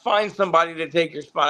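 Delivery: high, impatient producer voice; a hint of an exasperated woman; fed-up producer. Producer who had enough, high and impatient. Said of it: "I guess she had enough".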